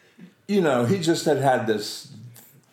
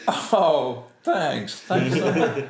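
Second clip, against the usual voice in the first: higher, lightly gushing thanks; mock starstruck thanks; 4 semitones higher, 3 dB louder, much slower than usual. Nervous actor thanking his idol, mock starstruck. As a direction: act a touch overawed and grateful.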